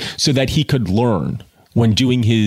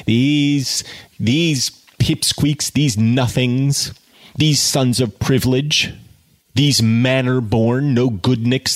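scornful list; 2 semitones higher, slower than usual. Real, not acted.

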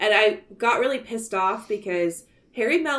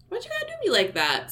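high-pitched, wounded complaint; mock plaintive whine; 13 semitones higher, faster than usual. Host moans at the movie for its twist, mock plaintive. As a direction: whine it up high, put-upon.

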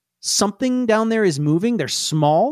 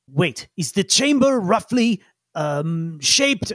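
curious scientist; slower than usual. Acted. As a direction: wonder aloud. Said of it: "He says".

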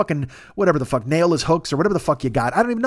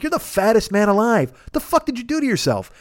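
raised, exasperated self-reproach; pleading telling-off, pitched up; scolding himself; 4 semitones higher than usual. Acted. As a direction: berate yourself in mock despair. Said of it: "And I'm like".

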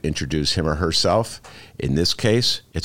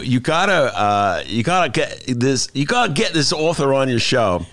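high-pitched, insistent publicist voice; imitated publicist; 9 semitones higher than usual. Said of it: "He goes".

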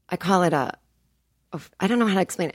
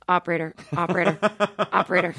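calling for operator; 2 semitones lower, faster than usual. Retold or imitated. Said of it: "I'm just going".

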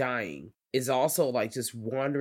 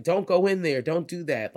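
warning shout; 5 semitones higher, 5 dB louder than usual. Retold or imitated. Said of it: "the characters kinda warning the characters".

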